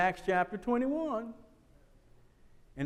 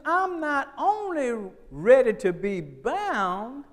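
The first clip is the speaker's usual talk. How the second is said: Paul's voice; 3 semitones higher, much slower than usual. Acted. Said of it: "He says".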